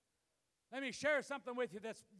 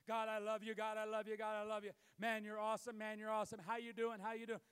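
rote prayer; faster than usual. Retold or imitated. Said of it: "five memorized lines of prayer".

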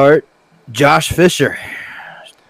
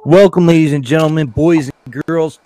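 ringmaster; 5 semitones higher than usual. Acted. Host opens show like ringmaster.

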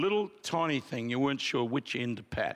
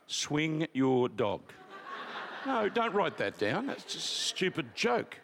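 laughing; slower than usual. Real, not acted. Joking with the congregation.

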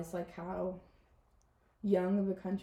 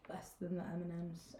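whisper; 3 semitones lower, 12 dB quieter than usual. Real, not acted. Secret aside about cost.

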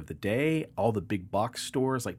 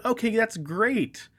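dry sarcasm; 7 semitones higher, 3 dB louder, slower than usual. Retold or imitated. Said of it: "And so I said".

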